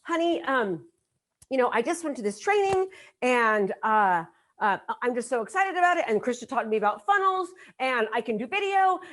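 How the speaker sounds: hesitant start, then eager gushing; over-excited wrong way. Shown as a demonstration. Attendee pitching the training to a spouse at home, over-excited. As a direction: bubble over with halting, run-on enthusiasm. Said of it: "this is what you shouldn't do".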